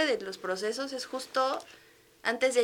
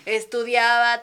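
laughing; 3 semitones higher, 9 dB louder than usual. Real, not acted. Laughing while recalling exam stress.

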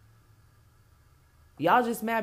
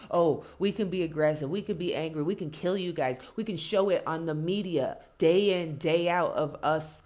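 lower, mock-smug voice, slowing near the end; mocking white voice; 5 semitones lower than usual. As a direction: sneer it as the hypocrite, dragging the last lines. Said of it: "justifiable for whites to fucking act the way they do".

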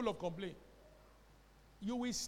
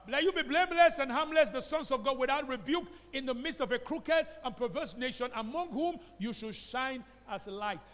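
loud scripture reading; 4 semitones higher, 5 dB louder than usual. Shown as a demonstration.

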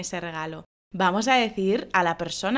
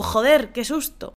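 startled exclamation; 2 semitones higher, 4 dB louder than usual. Acted. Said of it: "lo primero que vas a gritar".

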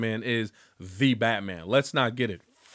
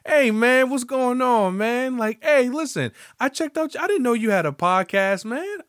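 put-on high, loud old-timer greeting; mock grandpa, high and loud; grandfather voice; 13 semitones higher, 6 dB louder than usual. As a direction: imitate the cool old grandpa hyped up. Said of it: "So he'd be like".

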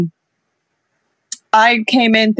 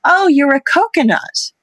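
higher, mimicked pronouncement; teasing remark; 6 semitones higher than usual. Someone labelling the speaker at work in Singapore, teasing. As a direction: imitate someone making a cheeky discovery. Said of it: "the first thing someone said is".

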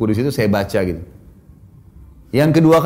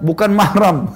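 higher voice, on the edge of laughing; imitated young child; 5 semitones higher, slower than usual. Schoolboy covering his eyes as girls pass, lightly imitated child voice. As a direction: lightly mimic a child's solemn refusal. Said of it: "dia bilang".

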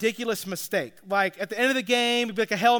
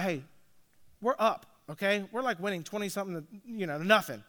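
calming down; 2 semitones lower, 7 dB quieter, faster than usual. Retold or imitated. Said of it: "So I calm him down".

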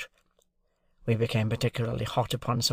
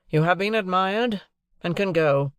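dismissal; 7 semitones higher, 3 dB louder than usual. Acted. Jaggers dismisses servant.

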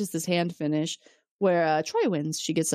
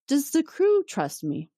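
creepy; 7 semitones higher, slower than usual. Retold or imitated. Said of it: "super weird and creepy".

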